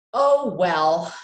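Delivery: a mild sighed Oh, well; sighing. Acted. Mama giving in to Papa, a mild sigh. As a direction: give in with a light sigh. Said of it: "she sighed".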